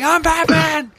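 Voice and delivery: hammed-up gruff superhero growl; over-the-top vigilante rasp; Batman. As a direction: declare it in a strained mock-hero voice. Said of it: "I'm going to talk like this".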